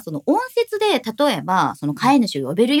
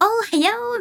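1 excited robot greeting; 11 semitones higher than usual. Retold or imitated. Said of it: "みたいなテンション".

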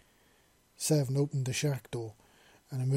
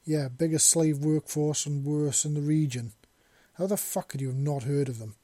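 louder, exasperated exclamation; exclaimed; 3 semitones higher, 5 dB louder than usual. Acted. Man exclaims at Seven's ignorance, louder. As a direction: exclaim it in disbelief. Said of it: "the man exclaimed again".

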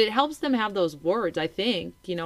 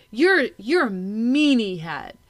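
slow, drawn-out mock-child taunt; name-calling child; 2 semitones higher, 4 dB louder, slower than usual. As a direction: act out a kid's name-calling, slightly louder. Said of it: "if they're like".

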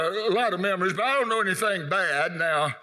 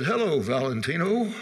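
teasing greeting; 2 semitones lower than usual. Retold or imitated. Boy teasing a classmate walking down the aisle, teasing.

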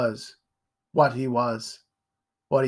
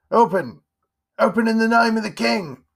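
higher, louder official shout; guard calling out; 10 semitones higher, 7 dB louder than usual. Acted. King's guard at the door, loud command. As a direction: bark it through a door. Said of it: "A voice called".

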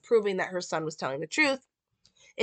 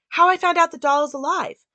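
urgent Karen; 5 semitones higher, 4 dB louder, faster than usual. Retold or imitated.

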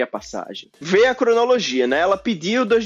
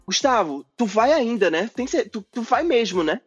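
imitating her, eagerly checking he will come; imagined insistent asking; 3 semitones higher than usual. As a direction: play her as if keen to confirm. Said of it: "Eu entendi ela falando".

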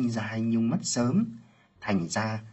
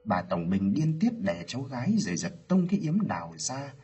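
plain reading voice

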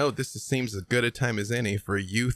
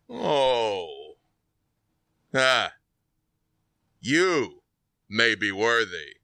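villain; 3 dB louder, much slower than usual. Acted. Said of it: "he turns and looks at you and says".

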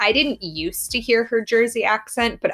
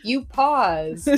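high-pitched, laughing protest; amused mock indignation, voice lifted high; defensive retort; 8 semitones higher, slower than usual. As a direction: retell an awkward comeback, pitched well up. Acted retort to slow-talking stepdad.

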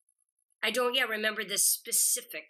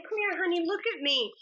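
playful younger self; 8 semitones higher, faster than usual. Retold or imitated. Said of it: "I'm like".

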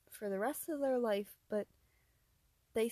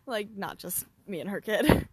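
laughing; 11 dB louder than usual. Real, not acted. Laughing correction.

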